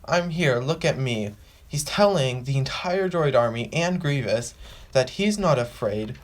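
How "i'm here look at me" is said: a lightly higher, confident call-out; bold announcing. Retold or imitated. Obi-Wan greeting the droid army, boldly announcing. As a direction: proclaim your arrival to everyone. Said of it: "just saying".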